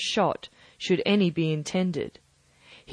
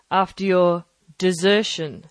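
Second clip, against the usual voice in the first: desertion leaned on heavily; stress on desertion; 5 dB louder than usual. Acted. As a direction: hit the word desertion with weight. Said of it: "laying a particular emphasis upon the word desertion".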